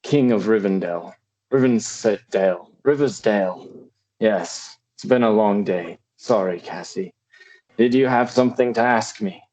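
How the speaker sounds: attempted British accent, measured delivery; weary lord in an amateur British accent; British-accented old lord. Tired lord asks his child Cassie, attempted British accent.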